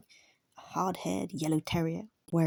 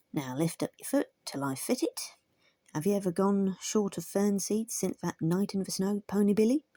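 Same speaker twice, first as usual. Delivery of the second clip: cheerful terrier blacksmith; 3 semitones higher than usual. Acted. Metal speaks.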